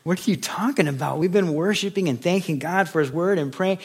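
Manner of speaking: high, startled "What?" then an indignant rush; baffled surprise. Retold or imitated. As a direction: act amazed at the question. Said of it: "I was like".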